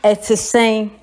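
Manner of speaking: "Ete seng" with a short falling vowel; Twi greeting. Shown as a demonstration. Teacher shows a Ghanaian how to say "Ete seng". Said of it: "We say it".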